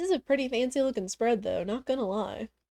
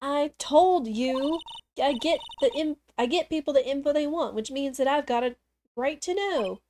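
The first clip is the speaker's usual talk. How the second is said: put-on pushy reporter in a southern accent, louder; 3 semitones higher, 3 dB louder than usual. Reporter arguing with the cop, southern accent. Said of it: "I might recognize that southern accent".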